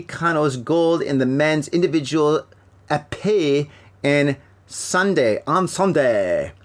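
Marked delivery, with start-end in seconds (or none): 2.9-6.5 mock American French accent. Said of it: "read it with a American French accent".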